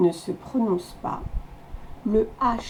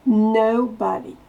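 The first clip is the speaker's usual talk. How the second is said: "Nobody" with a loud, bursting no; explosive no; 4 dB louder than usual. Shown as a demonstration. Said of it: "On explose le no". ("Nobody" avec le no qui explose)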